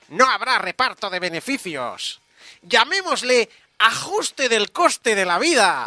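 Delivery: put-on cartoon goblin character voice. Describing a game's goblin character who runs a company, the speaker quotes him: goblin character voice. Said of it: "¿Y con ese voz?".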